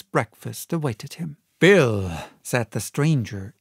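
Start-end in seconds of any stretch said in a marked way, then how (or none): 1.6-2.1 a touch louder, trying to sound big; forced bold call. Acted. Stranger forcing a bold voice to greet the captain. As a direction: put on a bold front. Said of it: "in a voice that I thought he had tried to make bold and big".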